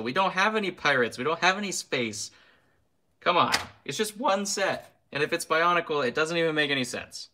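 high-pitched, exasperated ranting; worked-up rant about the missing classic themes; heated rant. Real, not acted. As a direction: push it up high like you can't believe it. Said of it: "You would pay to watch my rant videos".

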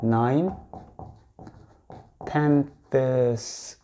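"nine" then "tenths" drawn out very slowly; "tenths" stretched for learners; slow model pronunciation. Shown as a demonstration. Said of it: "이렇게".

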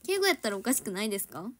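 やったら with Kansai intonation and pressing tone; Kansai-dialect keigo. Shown as a demonstration. Idol to fans showing Kansai keigo sounds pushy. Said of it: "なんかちょっと圧".

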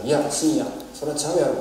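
light Osaka-dialect retort, quoting the professor; lightly voiced Osaka-ben no, that's wrong; casual Osaka dialect rebuke, barely acted. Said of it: "今大阪弁で話していますが".

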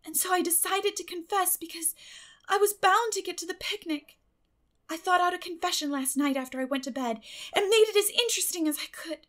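put-on high, quick girlish voice, aggrieved; a child pouring out her reasons; eager girl Anne. Anne explaining her confession.

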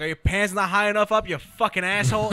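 mock shouting. Imitating Phil shouting abuse from the corner, mock yell. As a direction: hurl it like random abuse. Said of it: "he's just shouting".

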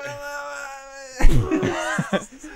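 hammed-up drawn-out wordless cry; garbled impression wail. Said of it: "you guys wanna hear my Jimmy Stewart impression".

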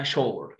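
شور with sh, "shor"; correct pronunciation. Shown as a demonstration. Teacher gives the correct word, شور with sh and falling. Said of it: "اسمها شور".

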